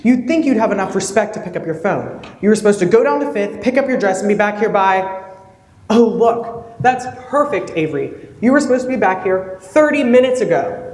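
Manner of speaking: exasperated fiancé, snapping "Three!"; irritated scolding. Acted. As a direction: scold her sharply for being late. Fiancé scolds her for being late.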